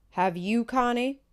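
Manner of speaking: loud, defiant declaration; said real loud. A narrator's reading. Aunt Gertie at the whites-only fountain, loud and defiant. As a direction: say it loud so the whole street hears.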